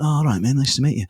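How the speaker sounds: lightly voiced laid-back Mancunian rock star; a hint of a casual, friendly guitar hero; impression of a guitarist. Guitar hero greets a nervous radio presenter, lightly mimicked. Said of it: "That was a good impression".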